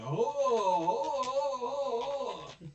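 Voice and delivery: very high, very loud shocked oohs; crowd oohing. Retold or imitated. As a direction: gasp together like a stunned audience. Crowd reacts to onstage change.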